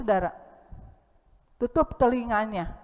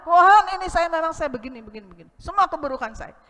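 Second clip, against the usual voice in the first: confessing prayer; 6 semitones higher, 5 dB louder, faster than usual. Pretend. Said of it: "buka-bukaan di hadapan Tuhan".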